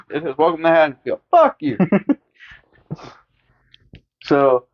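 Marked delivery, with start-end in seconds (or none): 0.4-1.8 much higher, squeaky curse; mock Linda insult. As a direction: fling it like a petty brat. Voicing the town.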